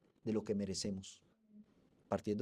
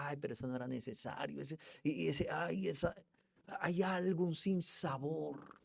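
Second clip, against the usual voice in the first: envious sneer; 4 semitones higher, 3 dB quieter than usual. Retold or imitated. Envious relative mocked.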